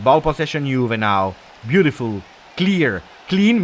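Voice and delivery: lively running match commentary; live play-by-play. Acted. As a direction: keep calling the action, urging the team on.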